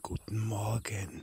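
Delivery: a soft, slow whispered "Guten Morgen"; whispered greeting. Real, not acted. Preacher greeting his listeners again, soft whisper. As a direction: breathe "Guten Morgen" like a secret.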